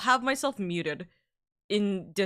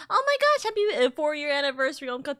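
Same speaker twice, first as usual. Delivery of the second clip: mock yell; 6 semitones higher, 3 dB louder, faster than usual. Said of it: "yell in my ear".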